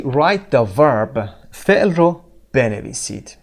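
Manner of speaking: Write the verb, drawn out very slowly; very slow dictation. Shown as a demonstration. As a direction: read the instruction word by word. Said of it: "teacher reads instruction". (آهسته و کشیده)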